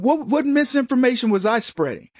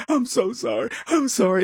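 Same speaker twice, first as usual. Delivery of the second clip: mock sobbing apology; 2 semitones higher than usual. Host imitating crying legislator at sentencing, mock tearful. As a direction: whimper the apology half-heartedly. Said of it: "he's crying".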